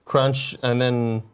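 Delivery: slow, spaced words; slow drawn out. Shown as a demonstration. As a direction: draw out crunch slowly. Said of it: "It's munch, then crunch".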